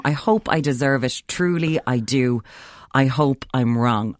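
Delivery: slow, lightly voiced Varys; a hint of the Varys murmur; quoting Varys. Varys's line echoed slowly to friends. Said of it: "where Varys went".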